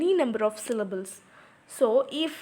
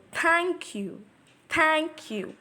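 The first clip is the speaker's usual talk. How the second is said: "Thank you" higher, leaning on Thank; strong-weak syllables; 4 semitones higher, much slower than usual. Shown as a demonstration. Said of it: "Thank is a strong syllable".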